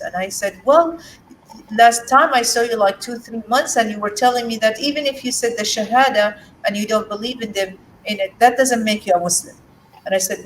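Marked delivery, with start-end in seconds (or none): 0.7-9.6 a hint of a skeptical friend, pitched up; mildly voiced doubting friend. Friend questioning whether the conversion is real, lightly voiced, higher. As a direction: lightly play the friend who doesn't buy it.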